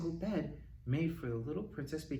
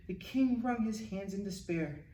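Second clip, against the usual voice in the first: ordinary delivery, nothing marked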